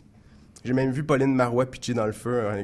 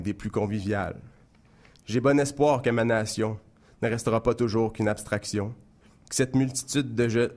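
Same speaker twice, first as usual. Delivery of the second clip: measured, rhymed spoken-word recital; lecture de poème. Acted. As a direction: recite it line by line, pausing after each verse. Récite son poème satirique. (poème récité, scandé vers par vers)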